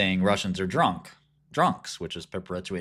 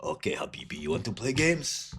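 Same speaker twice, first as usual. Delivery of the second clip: mock Arab accent. Sheikh challenging habibi over the stock, mock Arab accent. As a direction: taunt in a put-on Arab accent.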